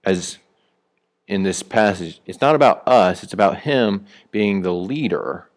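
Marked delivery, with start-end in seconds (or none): 3.2-5.5 him stressed as the key word. Real, not acted. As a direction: lean on him, not us. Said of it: "notice who it puts the emphasis on".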